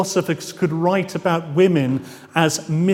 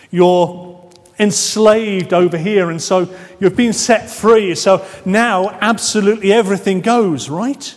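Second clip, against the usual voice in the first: louder, rushing to a cheeky conclusion; mock carefree reasoning; 3 semitones higher, 5 dB louder than usual. Acting out a carefree mistaken conclusion.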